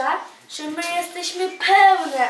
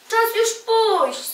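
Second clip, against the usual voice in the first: angry; 10 semitones higher, 4 dB louder, slower than usual. A narrator's reading. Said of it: "Ciemię się rozgniewało".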